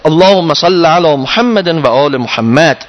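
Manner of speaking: slow, measured reading of the Arabic prayer; prayer recitation. Acted. Teacher closing the lesson with the supplication, slow prayer reading. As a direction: recite it like a devotional prayer, unhurried.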